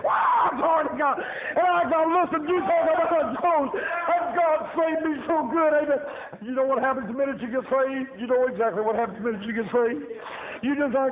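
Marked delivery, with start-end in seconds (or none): 0.1-6.0 raised, fervent preaching shout; shouting praise. Real, not acted. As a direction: lift it up and shout glory.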